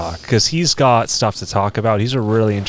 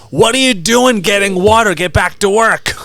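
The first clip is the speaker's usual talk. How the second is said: high, loud mock scolding; imitated gym-coach yell; imitated stern coach; 8 semitones higher, 5 dB louder than usual. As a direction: order a slacker back to work. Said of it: "It's mostly like".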